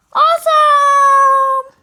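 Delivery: slow, loud, breathy whisper-shout of joy. Acted. A kid thrilled to work with a friend, whisper-shouting. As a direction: hiss out the cheer slowly. Cheering about working together.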